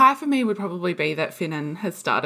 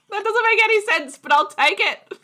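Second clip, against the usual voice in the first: much higher, laughing through it; 4 dB louder than usual. Real, not acted. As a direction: giggle the words out, delighted. Laughing about son's odd sentence.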